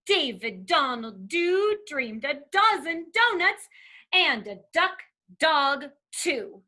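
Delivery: lively, measured picture-book reading; reading to children. Acted. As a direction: read it playfully, punching the alliteration.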